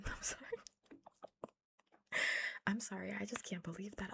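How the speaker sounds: laughs, then says sorry; laughing sorry at the cult theory; laughing apology. Real, not acted. Laughing apology over cult idea.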